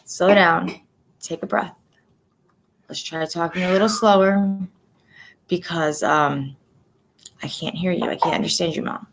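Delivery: patient, kind reassurance; gentle coaxing. Retold or imitated. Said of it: "tell her ... to slow down".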